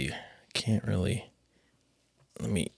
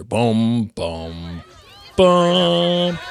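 trailer drumbeat; 2 semitones higher, much slower than usual. Pretend. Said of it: "Here is the trailer".

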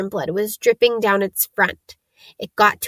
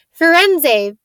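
booming angry call, higher and louder; thundering call; 7 semitones higher, 6 dB louder than usual. A narrator's reading. Bane angrily thundering at Firenze in the clearing. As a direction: thunder the name across the clearing. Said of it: "Bane thundered".

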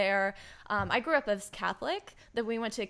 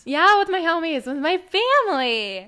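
beaming with joy; 7 semitones higher, 7 dB louder than usual. Real, not acted. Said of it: "I'm so beaming right now".

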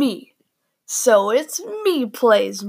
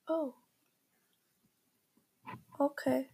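much softer, crestfallen mumble; mock deflated; 3 semitones higher, 15 dB quieter than usual. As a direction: let it fall away, rejected. His deflated reply retold.

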